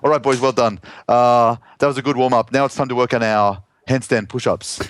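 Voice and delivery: put-on a coach speaking with a Lebanese accent. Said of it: "I'll put on my Lebanese accent".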